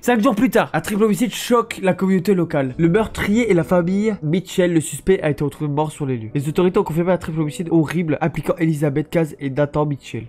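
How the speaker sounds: measured newscaster read; news report read. Acted. Streamer reading the epilogue like a newscaster, measured. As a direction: read it like a TV bulletin.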